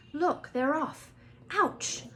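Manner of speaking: high, loud yelp of surprise; Ouch. A narrator's reading. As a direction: cry out as if poked. Ron poked from behind.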